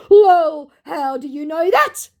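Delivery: high-pitched mock disbelief, rising at the end; incredulous question. Scammer caught out by the host, mock incredulous. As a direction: act out a baffled, over-punctuated question. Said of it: "Question mark, question mark".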